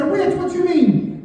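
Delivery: high-pitched incredulous question; baffled drunk sailor, hammed up; mock surprise. Acted sailor's disbelieving question.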